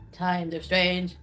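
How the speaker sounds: slow sung rock croon; a rock singer's voice. Pretend. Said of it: "It's my rock singer voice".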